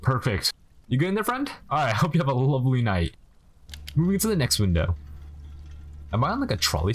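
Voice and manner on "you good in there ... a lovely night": friendly check-in. Pretend. Checks on the kid.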